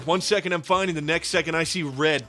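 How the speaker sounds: tough-guy boasting; cocky bragging. Acted. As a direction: brag like a wannabe tough guy. Psychopath bragging skit.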